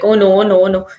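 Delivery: a student spiralling over the assignment; panicky oh no. Retold or imitated. Student panicking at laptop, loud anxious oh no. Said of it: "they're panicking".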